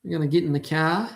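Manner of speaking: mock New York accent, quick question; lightly put-on New York accent, rattled off. Shown as a demonstration. Streamer trying the accent for chat, quick mock New York. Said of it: "That's a New York thing".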